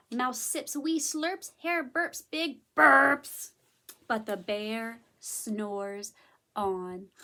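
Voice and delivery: picture-book storytelling; story narration. A narrator's reading. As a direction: read to little children, stretching key words. Reads a story aloud.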